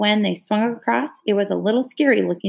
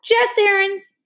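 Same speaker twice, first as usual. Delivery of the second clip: much higher startled cry through milk; garbled by milk; 13 semitones higher, slower than usual. A narrator's reading. Leslie crying out at Jess, milk in her mouth. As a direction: shout his name with a mouthful of milk. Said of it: "The name was garbled by the milk".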